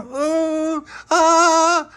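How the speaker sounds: high thrilled ooh and ah; excited ooh. Acted. Kids on the bus squealing as it is about to jump.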